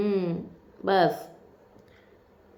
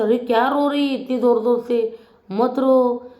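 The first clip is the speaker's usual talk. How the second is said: mock scolding; 4 semitones higher than usual. Mocking Tania's loud crying.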